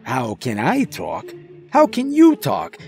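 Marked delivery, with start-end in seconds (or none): 1.7-2.8 very high, louder mocking echo; sassy skunk throwing the question back; annoyed retort. A narrator's reading. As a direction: hit YOU high and indignant in an accented voice. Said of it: "he answered, annoyed".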